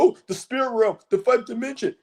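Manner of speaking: mocking mystic tone. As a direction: parody a spiritual type gushing. Mocking spiritual people.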